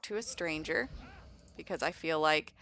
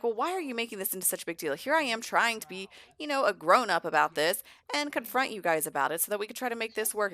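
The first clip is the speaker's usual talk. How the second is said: quick, higher, louder protest; lightly voiced aggrieved rival; 4 semitones higher, 4 dB louder, faster than usual. Vlad confronts Caleb about the clans, mildly aggrieved. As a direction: argue back, mildly exasperated.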